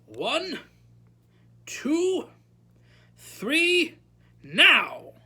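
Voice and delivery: spaced count building to a loud NOW; slow-building teacher's countdown, high and loud; commanding countdown. A narrator's reading. Counting down to release boggart.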